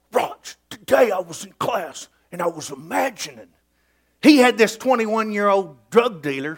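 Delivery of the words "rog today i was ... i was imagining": Todd's voice. Retold or imitated. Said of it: "he talked like this".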